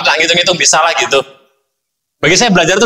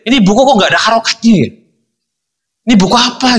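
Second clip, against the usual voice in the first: quick, higher, bewildered muttering to himself; baffled inner thought; 6 semitones higher than usual. Retold or imitated. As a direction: puzzle over the book in disbelief. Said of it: "Pertama saya berpikir". (heran dan bingung, cepat dan tinggi)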